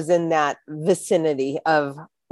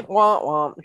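mock sad womp womp; 2 semitones lower than usual. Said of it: "delivery with a little bit of humor".

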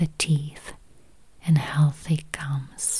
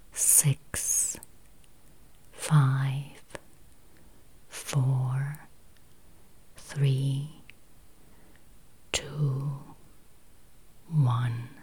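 each number softer, sinking into a barely audible whisper; fading countdown whisper; 2 semitones lower, 6 dB quieter, much slower than usual. Acted. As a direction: let the count fade away almost to nothing. Countdown into relaxation.

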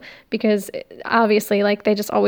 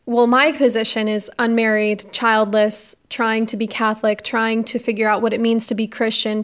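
slight lisp with new braces. Real, not acted. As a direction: talk around fresh braces. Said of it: "so now I have a lisp".

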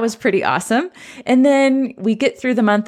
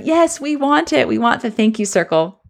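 lightly imitated eager shout of kids; a hint of a cheering classroom; mock class cheer; 2 semitones higher than usual. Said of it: "it was a unanimous cheer of".

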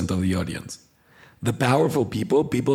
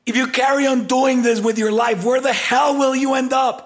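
loud, much higher, commanding blast; powerful commanding voice; 4 dB louder than usual. Shown as a demonstration. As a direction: command the room, almost screaming. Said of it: "the difference between saying".

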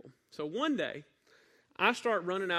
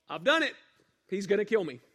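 panicked thought; 5 semitones higher, 8 dB louder than usual. Retold or imitated. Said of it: "And I thought".

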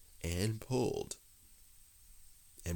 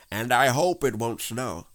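higher, louder, chirpy aside; cheerful; 5 semitones higher, 8 dB louder than usual. A narrator's reading. Rabbit chatting on to stuck Pooh, cheerful. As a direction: add it on breezily, voice lifted. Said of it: "said Rabbit cheerfully".

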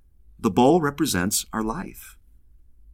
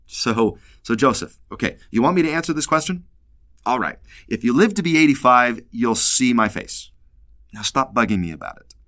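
paraphrased Lord voice. Retold or imitated. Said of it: "And I can just imagine".

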